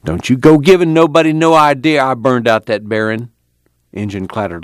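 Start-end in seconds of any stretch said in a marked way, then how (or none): 0.1-3.3 indignant grumble, pitched up; grumbling. A narrator's reading. Al inching the car down, grumbling defensively. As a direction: grumble a raised-pitch warning. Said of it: "Al grumbled as he inched".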